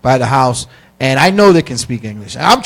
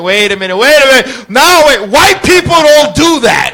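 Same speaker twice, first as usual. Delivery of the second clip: high, louder, mounting disbelief; acted disbelief; 8 semitones higher, 5 dB louder than usual. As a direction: protest higher and higher as it dawns on you. Startled at girlfriend dancing bachata.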